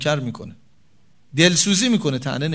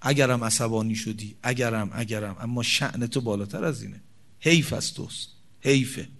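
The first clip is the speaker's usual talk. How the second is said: tender plea to husband; 4 semitones lower than usual. Shown as a demonstration. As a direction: plead gently, honoring him. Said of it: "بگه".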